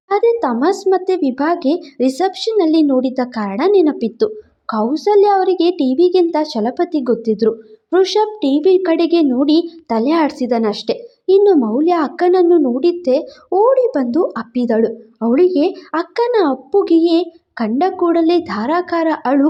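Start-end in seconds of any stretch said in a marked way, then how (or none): none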